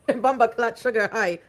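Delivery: put-on laughing through a playful Jamaican accent; a light Jamaican accent, slow and amused; mock Jamaican accent. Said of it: "Jamaican one".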